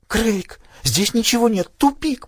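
a cry of panic in a dead end, voice climbing high; sobbing. Acted. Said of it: "прорыдала Селен".

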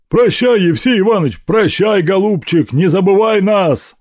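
high, loud voiced servants calling out goodbyes; crowd farewell. Servants at the gate calling farewell to Evsey, loud and high. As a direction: call out to him as he leaves.

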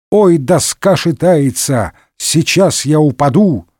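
drawn-out verse with mild alarm; reciting children's rhyme. A narrator's reading. Porthos finishes the verse, reciting uneasily. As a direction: recite the rhyme slowly, a little worried. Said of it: "начал декламировать детский стишок Портос".

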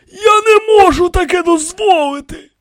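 very high, loud refusal; forbidding. A narrator's reading. High priest refuses the pharaohs, insistent.

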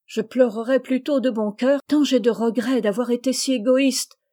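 s'écrier plus fort, avec émotion; exclaiming. Acted. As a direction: lancer un cri de remords. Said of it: "s'écria Rose". (s'écrier vivement)

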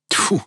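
loud, high "tfu" of disgust; disgusted spit. Acted.

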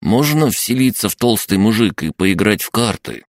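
high, eager little creature; crab gnome voice. Acted. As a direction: pester like a mischievous imp.

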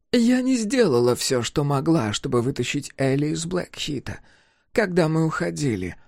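avoiding her eyes while admitting it; older woman confessing. A narrator's reading. Niema's voiced confession.

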